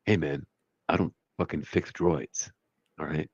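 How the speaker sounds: a lightly voiced, unbothered tech guy; Mister Terrific voice. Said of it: "That's my Mister Terrific voice".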